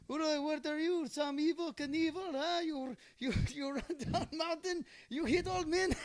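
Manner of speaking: put-on high, loud scolding old-man voice, laughing through it; mock angry old man. Old man on the slope scolds the boy who hit him, mock yell. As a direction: play the furious stranger yelling at a kid skier. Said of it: "he was like".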